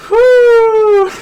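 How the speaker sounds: high, loud exasperated whew. Real, not acted. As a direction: blow out a big shocked whew. Exhale after grim war-crimes joke.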